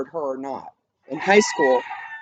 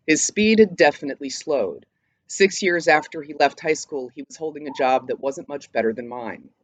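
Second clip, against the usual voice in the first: reading aloud. Acted. Reads Tom's monologue from the play.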